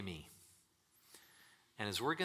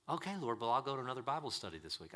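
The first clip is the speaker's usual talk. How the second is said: eager churchgoer; 3 semitones higher, faster than usual. Retold or imitated. Churchgoer answering God, dodging.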